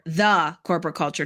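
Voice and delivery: THE said in full and set apart; THE as the one and only; stress on THE. Real, not acted. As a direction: lean on the word "the". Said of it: "not a corporate culture".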